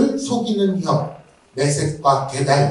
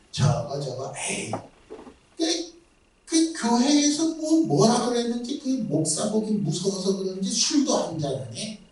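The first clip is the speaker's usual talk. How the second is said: mocking gossip; 3 semitones higher, 6 dB quieter than usual. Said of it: "라고 조롱하는 거예요".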